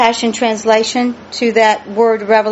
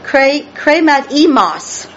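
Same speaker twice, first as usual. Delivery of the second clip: slow, higher "kremat emos", final syllable emphasised; stress on last syllable; 4 semitones higher, slower than usual. Shown as a demonstration. Teacher repeating "kremat emos" for the church, emphasis on last syllable. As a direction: sound out "kremat emos", leaning on "mos". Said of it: "with emphasis on the last syllable".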